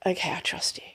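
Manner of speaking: put-on soft breathy whisper of a child giving in; whispered surrender. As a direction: whisper it, like a tired toddler finally letting go. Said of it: "And it's like".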